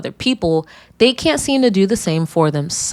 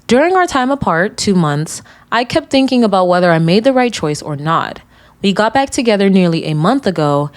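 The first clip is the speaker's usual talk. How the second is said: louder, steady letter-reading voice; reading a letter aloud; 4 dB louder than usual. Acted. Host reading a listener's confession aloud, steady and loud. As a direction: read the listener's letter out clearly.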